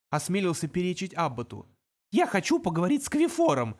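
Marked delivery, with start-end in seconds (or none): 2.1-3.8 mild tremble, higher imp voice; trembling voice. Acted. Imp daring to speak to the demon, shakily. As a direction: ask timidly. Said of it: "дрожащим голосом".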